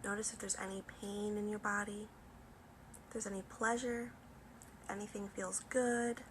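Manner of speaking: soft, unhurried meditation voice; guided meditation. Acted. Yoga teacher guiding students to notice the body, calm guided meditation. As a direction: gently lead them inward, with long pauses.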